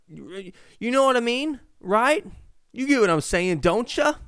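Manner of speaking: high, loud pestering questions; high excited asking. Acted. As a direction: keep pushing the listener. Mock questioning the audience.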